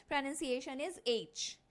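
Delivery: एच said slowly, lips forward; drawn-out model of एच; slow clear pronunciation. Shown as a demonstration. Teacher modelling the letter sound slowly. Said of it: "इसका pronunciation सबसे पहले देखो".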